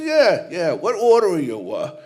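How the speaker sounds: breezy big-guy hello, lightly voiced; coach greeting a nun. Coach greeting the nun at the banquet, lightly voiced jock.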